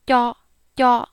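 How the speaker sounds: "kyo" said clear, no air; crisp unaspirated "kyo"; plain kyo. Shown as a demonstration. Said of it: "here's the ta for kyo".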